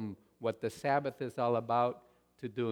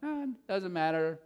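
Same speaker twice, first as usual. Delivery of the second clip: mock calm; 3 semitones higher, 3 dB louder than usual. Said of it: "you could just calmly say".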